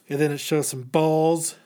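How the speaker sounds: mildly excited, drawn-out delivery; a little excited. Real, not acted. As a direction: tell it with a touch of relish. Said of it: "Sounds like you're a little excited about that".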